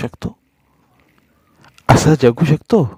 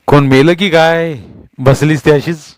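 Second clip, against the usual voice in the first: snapping at her; 4 semitones higher, 5 dB louder than usual. A narrator's reading. Husband snapping at his silent wife, angry. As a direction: bark it at her in disgust. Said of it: "तिच्यावर खेकसला".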